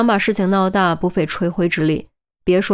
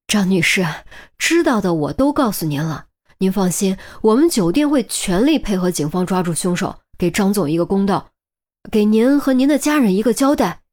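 humble. Acted. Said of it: "低声下气".

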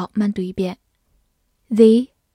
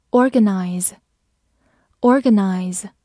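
slow word drill; much slower than usual. Shown as a demonstration. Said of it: "teacher's review of vocabulary words".

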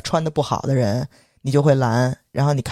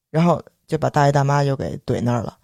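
normal talking voice

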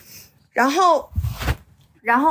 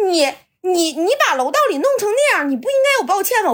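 higher-pitched, accusing mimicry; imitated indignant reproach; 6 semitones higher than usual. Downstairs man blaming her for the wet stairwell, imitated indignantly. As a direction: mimic him demanding an apology.

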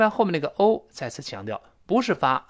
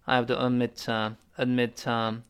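mildly hesitant, with "uh" trailing from "admit"; 2 semitones lower than usual. Shown as a demonstration. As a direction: say it reluctantly, linking "admit" into "uh". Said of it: "美国人经常犹豫地说".

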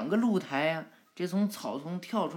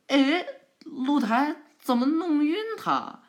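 much higher, louder startled question; startled cry; 10 semitones higher, 5 dB louder than usual. Acted. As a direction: schrik en vraag het hardop. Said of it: "博人就惊讶的".

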